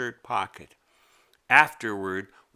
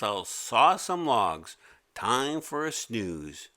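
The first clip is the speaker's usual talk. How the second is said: drowsy; slower than usual. Acted. Creature getting sleepy.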